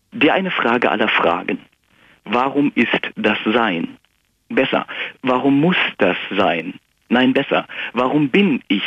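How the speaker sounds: measured, rhythmic rhyming recitation; poem recital. Acted. Caller reciting his political poem on the radio, rhythmic. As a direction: read the verses out with a steady poetic beat.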